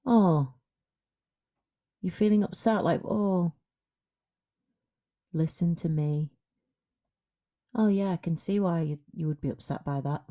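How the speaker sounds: gently soothing partner, understated; tender comforting. Retold or imitated. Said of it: "tilt his head to one side and say".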